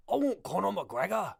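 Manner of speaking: cartoonish Irish leprechaun accent; Lucky Charms Irish accent. Shown as a demonstration. Fight fan testing his Irish accent, cartoonish leprechaun Irish. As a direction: ham up a stage-Irish accent. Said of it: "it feels very Lucky Charms-ish".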